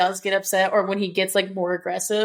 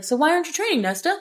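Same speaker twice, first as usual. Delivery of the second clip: sweet, casual imitation; Azriel; 8 semitones higher, faster than usual. Friend asking Nesta about training, sweet and casual. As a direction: lift the pitch for a light, friendly question. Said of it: "he sounds so sweet and casual".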